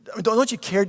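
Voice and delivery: insistent hurt plea. Acted. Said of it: "it goes a little deeper".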